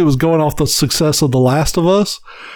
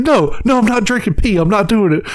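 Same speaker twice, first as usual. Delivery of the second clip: put-on whiny kid; 6 semitones higher than usual. Kyle refusing, voiced higher.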